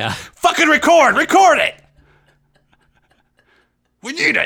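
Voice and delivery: frantic, very high, very loud, shrill scream. Retelling how a lieutenant screamed at a newsman pushing in a tape: retelling the lieutenant's screaming. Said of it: "the lieutenant's already screaming at him like".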